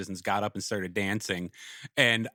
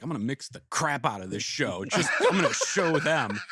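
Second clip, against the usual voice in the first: vindictive. Retold or imitated. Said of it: "I was like".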